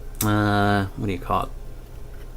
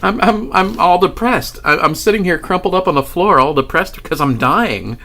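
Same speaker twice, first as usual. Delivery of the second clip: laughing while telling; 7 semitones higher, 4 dB louder than usual. Real, not acted.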